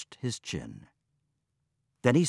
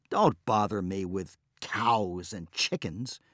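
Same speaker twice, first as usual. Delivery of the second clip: dismissive reply. Acted. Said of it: "replied Mabon".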